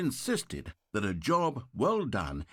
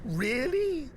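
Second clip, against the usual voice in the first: annoyed; 11 semitones higher than usual. Acted. Narrator annoyed at interruption.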